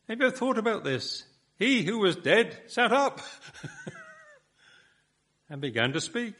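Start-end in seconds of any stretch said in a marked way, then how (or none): 1.6-6.3 higher, laughing with wonder; amazed. Real, not acted. Preacher marvelling to the congregation that the dead man sat up. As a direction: let the wonder break into a laugh.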